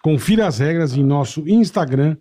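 upbeat sponsor ad read. Acted. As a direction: sell it like a radio ad.

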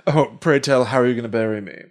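mildly mocking pretentious challenge; a hint of haughty aggression; pretentious aggro. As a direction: imitate a condescending professor, lightly. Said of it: "He gets all aggressive".

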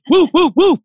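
high imitated woofs; bouncy spoken barking; dog bark. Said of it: "This dog is like".

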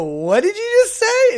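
very high shocked cry; shocked disbelief. Retold or imitated. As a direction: react in total disbelief. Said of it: "and we go".

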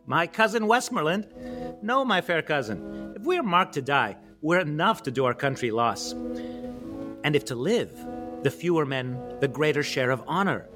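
King Henry's rousing battle speech, declaimed; amateur Shakespeare recital. Acted. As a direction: declaim it with weighty pauses and swings in pitch. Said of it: "presented to you by me in my".

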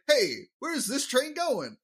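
high, slow comic impression; hammed-up, high-pitched mystery man; Rodney Dangerfield. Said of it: "gonna do it the rest of this episode".

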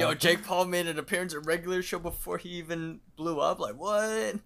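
high and laughing through the words; laughing disbelief. Real, not acted. Friend laughing in disbelief about a cameo, high.

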